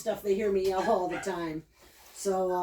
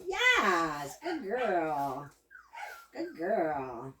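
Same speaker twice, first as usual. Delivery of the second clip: praise; 3 semitones lower, much slower than usual. Real, not acted. Praising the dog.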